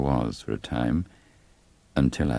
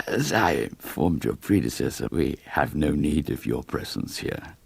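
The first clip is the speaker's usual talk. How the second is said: lightly voiced polite but cold mayor; a hint of an undertaker dismissing the vicar; aloof village mayor. Webster rebuffs the new clergyman.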